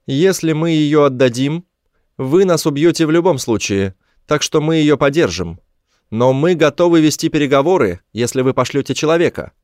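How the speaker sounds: high, firm creature voice; high-pitched alien stating terms; alien negotiator. A narrator's reading.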